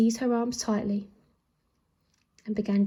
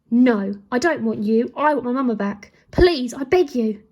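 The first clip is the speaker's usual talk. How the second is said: put-on upset boy; 7 dB louder than usual. A narrator's reading. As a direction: plead to have mama back. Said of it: "boy rejecting comfort".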